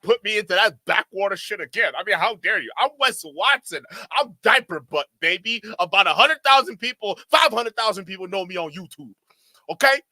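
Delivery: playing a spoiled celebrity throwing a tantrum; lightly voiced diva, outraged at the old jet; mock Karen rant. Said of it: "I totally Karened out".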